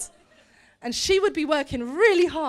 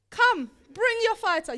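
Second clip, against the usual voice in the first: higher-pitched call to battle; taunting challenge; 6 semitones higher than usual. Acted. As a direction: dare them to send someone. Giant taunts the enemy army.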